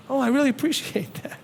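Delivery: genuine thanks. Shown as a demonstration. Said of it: "Genuinely thank them".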